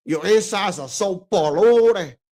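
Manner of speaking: put-on slow, lightly done Scarface Cuban-English accent. Quoting Al Pacino's line to viewers, light Scarface accent. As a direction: drag out polluted in a hint of the Scarface accent. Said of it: "with the accent".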